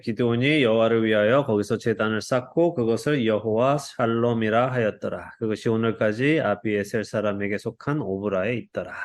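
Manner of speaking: measured Bible reading voice; scripture reading. Acted. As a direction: read the passage aloud steadily.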